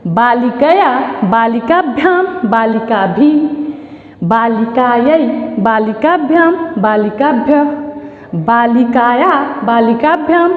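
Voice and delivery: each form said separately and evenly, with pauses; measured classroom drill, stretched syllables; model declension recitation. Shown as a demonstration. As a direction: recite the Sanskrit table for pupils to follow. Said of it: "फिर इसको हम लोग पढ़ेंगे".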